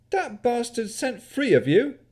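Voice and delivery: put-on high, loud yokel shout in a country accent; indignant country yokel accent. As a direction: bark at intruders in a broad country yokel accent. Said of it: "His accent mimicked that of a country yokel".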